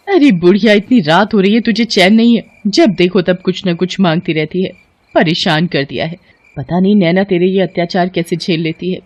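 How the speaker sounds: lightly voiced, exasperated nagging; irritated daughter-in-law. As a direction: berate the old woman with annoyance.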